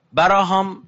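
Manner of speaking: براهام said with b in place of p, bærahɔm; Hebrew name. Shown as a demonstration. (براهام با ب به جای پ، باراهام)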